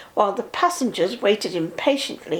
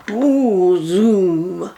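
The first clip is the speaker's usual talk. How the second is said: excited whoosh; 3 semitones lower, 5 dB louder than usual. Acted. Reading train story to child.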